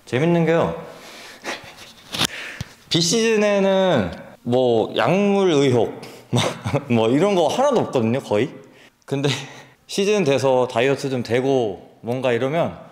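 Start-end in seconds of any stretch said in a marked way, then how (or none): 1.4-8.5 slow, amused and louder; drawn out through a grin; laughing. Real, not acted. Joking about doping suspicion. (웃으면서 느릿하게)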